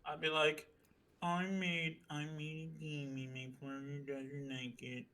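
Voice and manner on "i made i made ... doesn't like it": slow, hammed-up sulky whine; mock sad. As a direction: fake sulk over the game.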